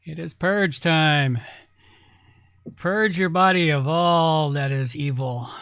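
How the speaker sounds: slow, ominous announcer voice; dystopian announcer. Pretend. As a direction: intone it like a doomsday broadcast. Mock announcer after clip.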